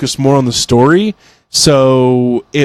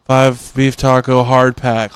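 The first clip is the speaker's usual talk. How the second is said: slow, absent-minded read of the order; mildly imitated spaced-out drive-thru worker; vacant cashier; slower than usual. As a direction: rattle off the order like nobody's home. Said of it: "like, just like that".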